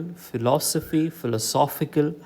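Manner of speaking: phi-LOS-ophy, then philo-SOPH-ical for philosophy, philosophical; shifting stress. Shown as a demonstration. Teacher recapping word pairs, stress shifting in philosophy, philosophical. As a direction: move the weight along from philosophy to philosophical. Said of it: "The stress falls on".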